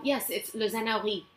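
straight-faced mock French; deadpan made-up French word; fake French accent. To her students, a Spanish word in fake French accent. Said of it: "I would say it with such a straight face".

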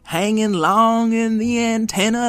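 put-on high, lively wise old robot; old rusty robot. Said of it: "I'm a wise old robot".

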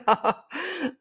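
short high-pitched laugh, real and a bit self-conscious; sheepish high giggle; high embarrassed laugh. Real, not acted. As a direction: let a high laugh escape. Laughs at own emotional state.

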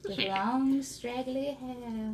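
put-on old hag. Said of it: "I'd make such a good creepy witch".

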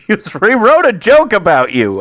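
high, emphatic repeated insistence; worked-up comic indignation; exasperated yelling. Real, not acted. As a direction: shout over his excuses. Yelling over co-host's excuse.

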